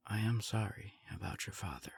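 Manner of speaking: soft whisper, off the record; hushed, private sympathy; whispered condolence. Acted.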